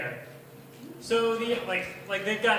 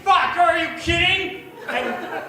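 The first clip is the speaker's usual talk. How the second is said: high, loud panicked shriek; mock screaming; 9 semitones higher, 9 dB louder than usual. Tutor shrieking at the kid over the pulled tooth. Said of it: "I just start like".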